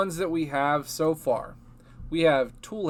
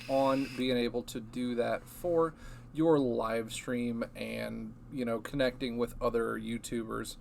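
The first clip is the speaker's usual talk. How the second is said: robotic voice. Real, not acted. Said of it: "You sound super robotic right now".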